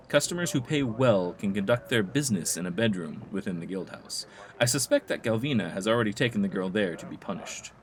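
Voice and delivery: measured, theatrical telling of town intrigue; game informant. Acted. Informant tells player of Galvina's feud, theatrical storytelling. Reads game character's dialogue aloud.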